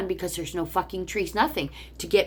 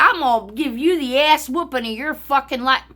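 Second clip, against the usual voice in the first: imitated threat; 6 semitones higher, 5 dB louder than usual. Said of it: "she's threatening me".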